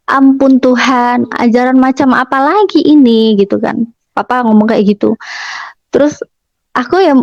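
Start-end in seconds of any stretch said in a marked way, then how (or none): 0.1-3.4 slow dismay. Retold or imitated. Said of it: "papa tuh bilang".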